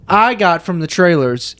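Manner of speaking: slow delivery with a heavily emphasized "I"; stress on I. Real, not acted. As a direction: lean hard and long on the word "I". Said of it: "You emphasized "I" so much".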